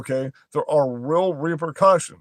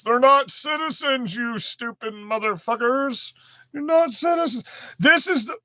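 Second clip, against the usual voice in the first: angry outburst; 8 semitones higher than usual. Real, not acted. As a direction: spit it at them in contempt. Ranting at opponents.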